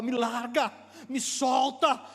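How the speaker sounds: preacher voicing God demanding release; shouted demand. God to Jacob in the struggle, shouted demand.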